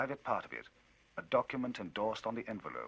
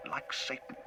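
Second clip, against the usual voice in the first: lightly raised, animated storyteller; Enfield telling his tale; 13 semitones higher, 5 dB louder than usual. Acted. Enfield recounting the night to Utterson, animated. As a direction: recount it with rising excitement.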